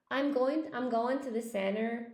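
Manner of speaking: American accent, "center" as "senner"; regional American accent. Shown as a demonstration. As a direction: try an American accent, dropping the t. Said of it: "maybe in some parts of America".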